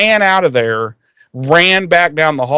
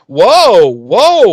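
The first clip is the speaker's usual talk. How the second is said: louder startled whoa, whoa; mock shocked whoa; 4 semitones higher, 5 dB louder than usual. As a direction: pull back in mock alarm. Willow reacts in shock.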